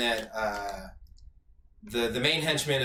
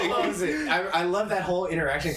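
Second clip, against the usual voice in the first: laughing excited; 4 semitones higher than usual. Real, not acted. Laughing reaction.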